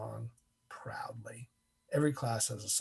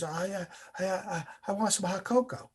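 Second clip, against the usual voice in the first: higher, halting stammer; imitated shivering; 5 semitones higher than usual. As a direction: stammer it timidly as if shaking with cold. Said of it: "he's shaking".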